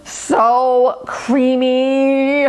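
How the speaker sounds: very slow, savoring delight; drawn-out delight. Real, not acted. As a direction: stretch it out like it's heaven. Tasting the queso, amazed.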